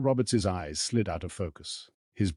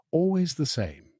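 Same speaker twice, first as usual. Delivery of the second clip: amused, smiling; 9 semitones higher, slower than usual. Acted.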